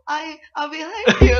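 eager agreement. Acted. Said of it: "그렇게 하지 마".

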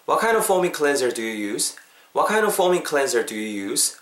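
"what kind of foaming cleanser do you use" as one linked phrase; naturally joined. Shown as a demonstration. Teacher combining the parts for learners, the sentence smoothly linked. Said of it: "자연스럽게 합치면은요".

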